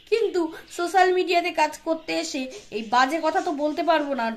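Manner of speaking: normal talking voice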